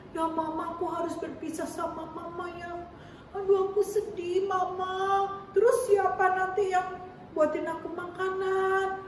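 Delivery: put-on a touch of a small boy's sorrow; sad child. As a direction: lightly act a child sad to leave his mother. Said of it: "Dalam hati dia pasti sedih".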